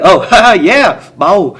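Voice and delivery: loud, high retold laugh; playing along laughing. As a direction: laugh it off heartily.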